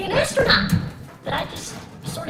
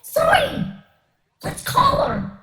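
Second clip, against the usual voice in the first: high, loud, eager burst; excited exclamation; 12 semitones higher, 5 dB louder, much slower than usual. Acted. Boy eager to call Zoe, thrilled and high. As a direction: burst out at the idea, pitched way up.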